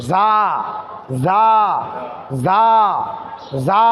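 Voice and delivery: জা said softly, like the start of ঝাল; soft sound. Shown as a demonstration. Teacher drilling a soft জা for students. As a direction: soften জা as in the curry word. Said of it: "জা নিয়ে আসবো".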